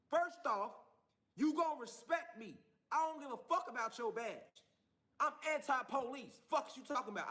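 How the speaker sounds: mildly forceful, defiant comeback; retold defiance. Father telling off an officer, defiant retelling. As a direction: lay down your terms firmly. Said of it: "I told her just like that".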